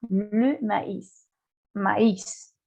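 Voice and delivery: "maíz" with the final S clearly sounded; French "Le maíz", sound out the S at the end; final S pronounced. Shown as a demonstration. Teacher explains the word's ending, "maíz" with audible final S. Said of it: "Esta S sí la pronuncio".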